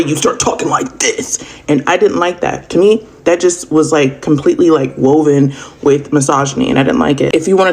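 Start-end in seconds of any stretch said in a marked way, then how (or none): 0.0-1.4 imitating her changed tone, slow; mild mock impression, slowed; slowed, altered demo voice. Shown as a demonstration. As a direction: mimic how she talks about a rapper.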